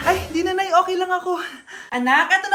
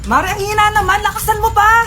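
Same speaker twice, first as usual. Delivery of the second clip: higher, pressing shout; urgent exhortation; 4 semitones higher, 3 dB louder than usual. Acted. Midwife scolding a weak push, urgent. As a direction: demand a harder push.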